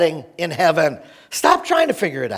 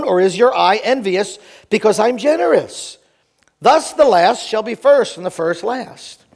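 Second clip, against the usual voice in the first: brisk, expressive Bible reading; scripture reading; 2 semitones higher than usual. Acted. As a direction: read the parable aloud to a congregation, animated. Reads scripture aloud to congregation.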